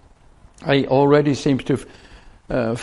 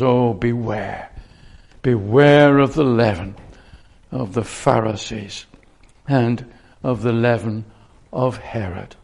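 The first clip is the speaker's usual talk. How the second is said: grave warning; 5 semitones lower than usual. Acted. Jesus warning his disciples, low and grave. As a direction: lower the voice and warn them. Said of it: "An utterance born out of frustration".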